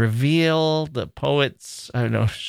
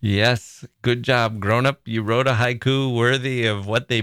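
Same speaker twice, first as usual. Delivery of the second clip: sarcastic. Real, not acted. Sarcastic praise to poet.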